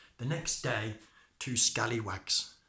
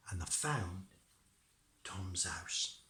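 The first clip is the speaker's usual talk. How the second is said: whispering; 4 semitones lower, 6 dB quieter, slower than usual. A narrator's reading. Narration suddenly hushed.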